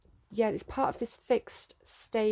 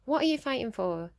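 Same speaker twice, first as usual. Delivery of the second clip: mildly exasperated challenge, a little higher; challenging; 3 semitones higher than usual. Shown as a demonstration. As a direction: question it as if there's no need to fight. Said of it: "the other way of saying it is like".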